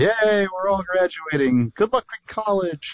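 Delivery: mock cheesy speech, high, slow, stretched out, mock-cheerful.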